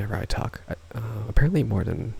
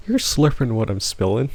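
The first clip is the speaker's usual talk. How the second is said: quoting Pahi; 2 semitones higher, 5 dB louder than usual. Retold or imitated. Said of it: "How does Pahi say that with a straight face".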